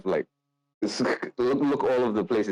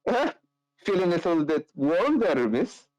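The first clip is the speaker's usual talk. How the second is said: higher, teasing flirt; flirty rogue; 9 semitones higher than usual. Acted. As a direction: tease her about blushing. Carl flirts.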